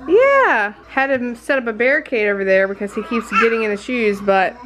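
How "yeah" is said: high, drawn-out question to a little one. Real, not acted. Mom asking her little one, playful baby talk. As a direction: coo it up high, then a bright yes.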